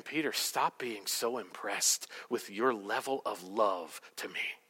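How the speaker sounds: low, slow and soft; gentle correction. Acted. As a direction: correct him softly and deliberately. Jesus gently corrects Peter, acted.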